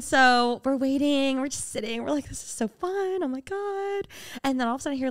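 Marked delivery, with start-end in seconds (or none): 2.3-4.1 small, high, soft gushing; hammed-up tourist glee in miniature; mock girly delight. Mimics herself as thrilled tourist.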